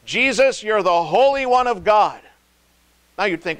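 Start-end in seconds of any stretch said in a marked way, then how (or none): 0.1-2.2 higher, louder, strange demonic voice. Retold or imitated. Demon recognizes Jesus, eerie higher demonic cry. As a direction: let the demon blurt out who he is. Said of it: "They knew exactly who he was".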